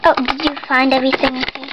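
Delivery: fast cashier patter; flat rote cashier. Pretend. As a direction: rattle it off like a clerk. Shopkeeper role greeting customer.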